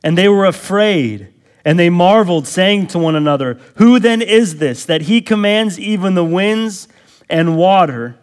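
loud, high, driving sermon delivery; full-force preaching. Acted. Pastor preaching the storm passage to his church, loud and high. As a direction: preach it hard to the congregation. Preacher reading and expounding the text.

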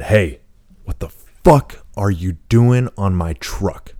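half-held-back yell at someone messing with your truck; retold yell. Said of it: "I was yelling".

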